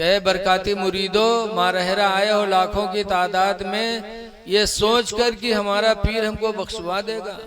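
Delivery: retold public address, firmly projected; retold proclamation. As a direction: proclaim it as to a great gathering. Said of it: "हर साल ऐलान करते हैं".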